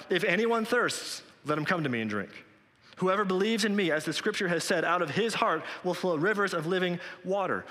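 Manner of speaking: a hint of Jesus calling out to the crowd; crying out. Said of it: "Jesus stood up and cried out".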